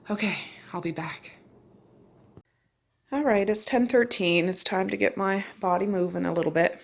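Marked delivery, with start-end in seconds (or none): 0.1-1.3 whispering. Real, not acted. Signing off softly.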